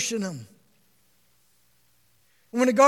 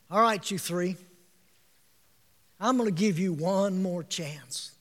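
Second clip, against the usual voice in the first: king's ultimatum; 7 semitones lower, 8 dB quieter than usual. Retold or imitated. King voiced in retold story.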